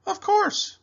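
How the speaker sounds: high, loud grand Duke. Acted. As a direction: boom it out like a pompous duke. Duke character voice.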